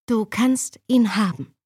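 steady firm voice, stress on ihn. Acted. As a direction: say it firmly and mean it. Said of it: "wiederholte ich mit fester Stimme".

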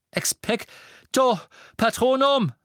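slow, high, forceful shout; spell incantation. Acted. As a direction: cast it loudly, drawing out each word. Harry casts a spell.

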